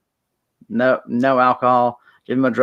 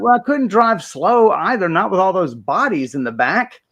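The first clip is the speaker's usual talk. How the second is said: raised, matter-of-fact admission; casual driver voice; 8 semitones higher than usual. Retold or imitated. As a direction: say it like it's nothing. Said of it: "He's like".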